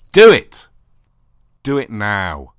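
furious shouted order. Acted. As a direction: yell it as a command. Dominant partner yells an order.

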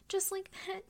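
pressed out loud and urgent. Acted. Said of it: "same words, full voice".

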